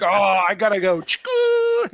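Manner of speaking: hurrying off, then a squeaky hang-up noise; mock hang-up. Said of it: "It's like".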